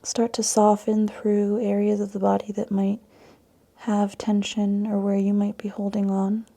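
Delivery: calm yoga meditation with long pauses; guided meditation. Acted. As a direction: guide them into the breath, leaving space between phrases. Guides breath and intention setting.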